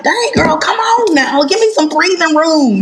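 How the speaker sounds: mock exasperation. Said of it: "to the point where I'm like".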